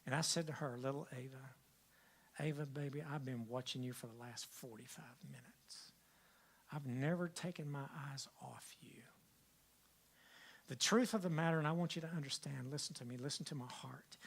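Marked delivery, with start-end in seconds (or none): 0.8-9.0 tender. Retold or imitated. Grandfather answering granddaughter tenderly. 12.7-14.2 whispered plea. Real, not acted. Preacher pleading intimately.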